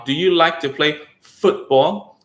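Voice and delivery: slow, over-articulated question; slow drill speech. Shown as a demonstration. Therapist showing kids talking in slow exaggerated drills. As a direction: drag it out like a drilled exercise. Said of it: "Or like".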